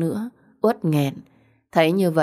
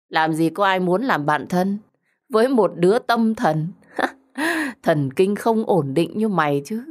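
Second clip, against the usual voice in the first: mocking put-down broken by a laugh; scornful, amused taunt; jeering; 3 semitones higher than usual. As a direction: sneer at the friend, laughing midway. Vi jeers at friend.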